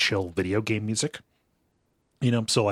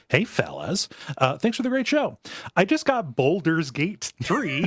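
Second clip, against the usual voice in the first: Pete White voice; 7 semitones higher than usual. Acted. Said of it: "That's the voice that we're doing".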